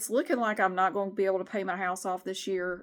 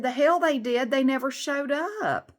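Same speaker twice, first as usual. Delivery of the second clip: retorting; 5 semitones higher, 5 dB louder than usual. Retold or imitated. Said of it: "I said".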